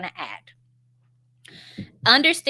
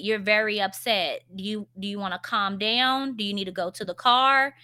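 gentle comforting parent. Shown as a demonstration. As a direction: calmly soothe a crying kid. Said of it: "it can be more of a".

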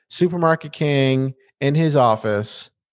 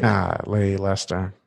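a lower, softer Minnesota aw-shucks; Minnesota golly; 6 semitones lower, 4 dB quieter than usual. Retold or imitated. Imitating a fretful Minnesotan talking to Lester, lower and softer. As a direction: sigh it like a mild Minnesotan. Mimicking Minnesota-nice character.

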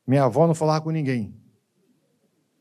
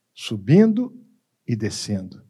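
up and down; 6 semitones lower, slower than usual. Shown as a demonstration. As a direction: let the voice climb on "Subindo" and sink on "e descendo". Voice acts out rising and falling.

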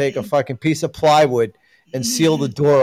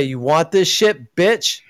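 drill sergeant; 4 semitones higher, slower than usual. Retold or imitated.

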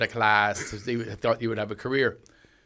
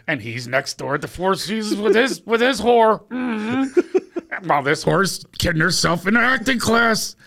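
higher, louder gossipy mock teacher; catty whispered aside; 10 semitones higher, 4 dB louder than usual. Teacher whispers insults about a student, high and catty. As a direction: dish the dirt with a sneer.

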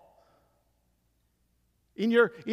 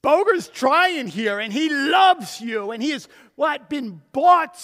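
trinity pleading; 4 semitones higher, 7 dB louder than usual. Acted. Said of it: "all three of them as one are saying".

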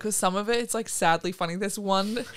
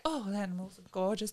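soft mock adoration; mock adoring; 8 dB quieter than usual. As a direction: gush softly over the animals. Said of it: "he went from, like".

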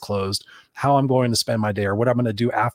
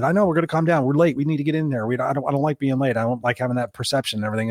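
stressed father; 3 semitones higher than usual. Retold or imitated. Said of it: "I'm frustrated".

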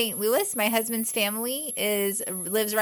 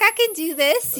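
confident self; 8 semitones higher, 5 dB louder than usual. Retold or imitated. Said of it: "I was like".

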